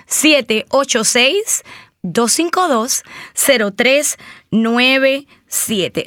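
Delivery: phone number read out slowly, digit by digit; slow dictation. Shown as a demonstration. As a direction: spell out the number slow so they can write it. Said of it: "Una vez más". (dictando el número despacio)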